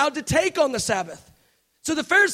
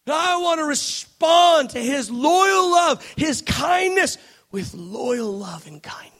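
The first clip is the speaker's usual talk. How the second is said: passionate cry; 3 semitones higher, slower than usual. Real, not acted. Passionate preaching climax.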